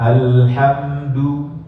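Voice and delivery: slow alhamdu, lips rounded on du; rounded dhammah. Shown as a demonstration. Teacher modelling dhammah in alhamdu. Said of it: "bibir bulat".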